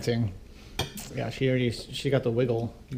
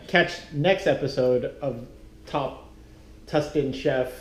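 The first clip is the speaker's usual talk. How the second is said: laughing; 8 semitones higher, much slower than usual. Real, not acted. Laughing through a mock show outro.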